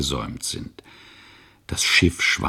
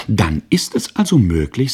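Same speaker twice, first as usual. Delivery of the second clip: put-on excited child; 4 semitones higher, 5 dB louder than usual. Boy reasoning excitedly to mother.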